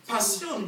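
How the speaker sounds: "Passion" said the French way, pah-syon; French pronunciation. Shown as a demonstration. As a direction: say "Passion" with an s-y sound, no sh. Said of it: "What is passionate in French?".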